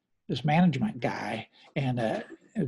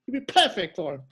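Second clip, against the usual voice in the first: Clem's voice; 4 semitones higher, faster than usual. Retold or imitated. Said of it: "He goes".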